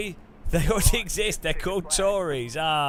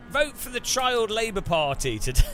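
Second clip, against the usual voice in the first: campaign ad voice; 6 semitones higher than usual. Pretend. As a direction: sell it like an election ad. Mock campaign slogan.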